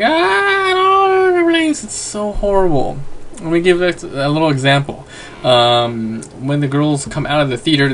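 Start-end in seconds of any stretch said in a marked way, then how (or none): 0.0-3.0 very high, drawn-out mock squeal; high-pitched fangirl wail, slowed and stretched; screaming fangirl. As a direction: imitate little girls squealing over a movie. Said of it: "all these little girls are like".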